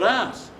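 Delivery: "arse" said for house, with a long open ah; Derbyshire "arse". Shown as a demonstration. Comic shows how Derbyshire relatives say house, "arse" with long ah. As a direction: stretch the vowel in "arse". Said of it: "where they call their house their".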